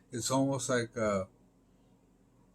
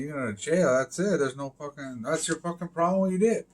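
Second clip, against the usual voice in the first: heated rant; 3 semitones higher, 5 dB louder than usual. Real, not acted. Heated rant about jail.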